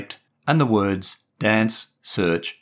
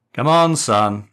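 called up; 3 semitones higher, 6 dB louder, slower than usual. Acted. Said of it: "his dad called up to him".

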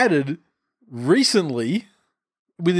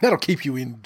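laughing mock posh; 5 semitones higher, slower than usual. Mocking posh Wimbledon, laughing.

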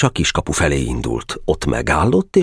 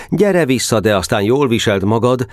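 raised, high-pitched call; calling after someone; 6 semitones higher than usual. A narrator's reading. Boka tempted to recall Geréb, calling out. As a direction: call him back without a full shout. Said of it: "hogy utána kiáltson".

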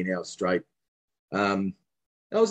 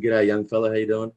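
put-on light Caribbean accent greeting; a hint of a Caribbean lilt. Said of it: "in his big Caribbean accent".

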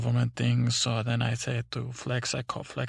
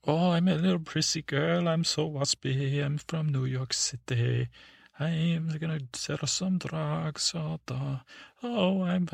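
put-on prissy girl voice; 4 semitones higher, slower than usual. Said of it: "then I start acting out".

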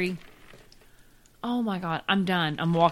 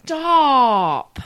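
sharp loud high "stop"; shouting match; 6 semitones higher, 10 dB louder than usual. Real, not acted. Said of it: "Don't yell at me".

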